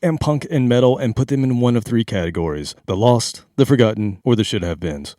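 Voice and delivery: smooth monotone radio host; steady, flat DJ intro read; college DJ voice. Pretend. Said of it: "Are, are we talking in monotone".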